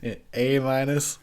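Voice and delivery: An A minus, with A stressed as the letter; pun explained. Shown as a demonstration. Reviewer explaining his grade pun, stressing A. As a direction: lean on A to spell out the joke. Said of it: "get it?".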